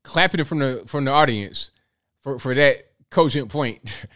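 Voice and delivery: slow, dry sarcastic praise. Real, not acted. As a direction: draw it out in mock approval. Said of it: "I'm being sarcastic".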